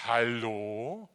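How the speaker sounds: God's whisper. Acted. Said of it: "der Geist Gottes flüstert dir heute Morgen zu".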